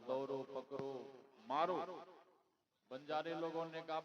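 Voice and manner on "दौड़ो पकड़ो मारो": acted mob cries, last one loudest; urgent storyteller's version of a rowdy mob; mob clamour. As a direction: call out the chase, building to a loud punch. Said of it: "हल्ला गुल्ला हुआ".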